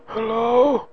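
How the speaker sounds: soft, tentative hello into the phone; hello, barely voiced; quiet hello. Caller unsure anyone is there.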